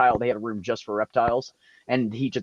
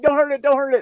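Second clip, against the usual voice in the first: very high, frantic repeated plea; desperate pleading; 6 dB louder, faster than usual. Retold or imitated. Imitating Tanya pleading to spare the biting lizard, high and frantic. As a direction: beg over and over, near tears. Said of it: "She's like".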